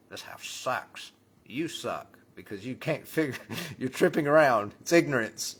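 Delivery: high, loud rant breaking into laughter; shouting through laughter; laughing rant. Acted. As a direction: rant about the house while cracking up. Mock homeowner rant, laughing.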